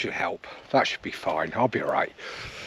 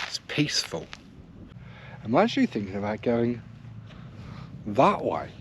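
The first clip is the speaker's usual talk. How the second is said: whispering; 6 dB quieter than usual. Real, not acted. Quiet moment on the moor.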